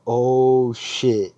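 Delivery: loud, drawn-out "oh"; awed hype. Retold or imitated. Crowd seeing the masked owner come out, hyped. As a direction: imitate an excited crowd's reaction.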